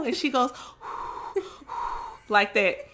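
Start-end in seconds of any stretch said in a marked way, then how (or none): 0.6-2.2 soft airy blowing; failed whistle. Acted. Peppa trying to learn to whistle, soft toneless blowing. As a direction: blow through pursed lips with hardly any tone. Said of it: "put your lips together and blow".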